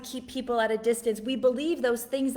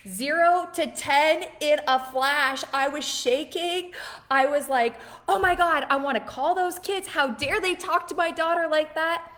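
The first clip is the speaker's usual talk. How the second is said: raised, louder outburst of indignation; retold outrage; 4 semitones higher, 4 dB louder than usual. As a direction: re-enact a mom going from zero to ten. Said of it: "I was so mad this weekend".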